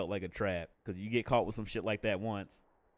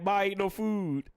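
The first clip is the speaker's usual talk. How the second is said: put-on kid complaining; 7 semitones higher, slower than usual. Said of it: "and I'd be like".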